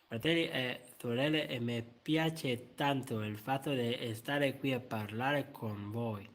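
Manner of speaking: lightly voiced pope sermon in Italian; a hint of the Pope preaching, slow in places; mild papal address to brothers and sisters; Pope impression. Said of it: "So the Pop goes like".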